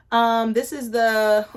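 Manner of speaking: slow, drawn-out grand intro; mock presenter voice; odd slow announcer voice. Real, not acted. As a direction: announce it like a big reveal. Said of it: "I don't know why I said it like that".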